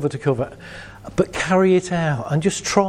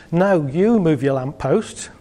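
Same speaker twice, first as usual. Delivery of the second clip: slow, pointed mock aggression; aggressive; slower than usual. Shown as a demonstration. Demonstrating aggression to the audience, slow mock hostility. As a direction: push back at the neighbour, slow and pointed. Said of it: "Aggression is".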